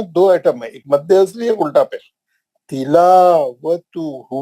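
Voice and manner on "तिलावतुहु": slow, drawn-out Quranic recitation. Shown as a demonstration. Teacher recites word slowly for class. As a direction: chant each syllable slowly for students. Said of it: "ये कलमे में कितने item है".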